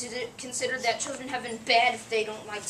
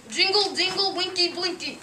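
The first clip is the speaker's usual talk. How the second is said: higher, louder call out; shouting; 4 semitones higher, 3 dB louder than usual. Acted. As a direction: call the elves from afar. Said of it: "shouts for his elves".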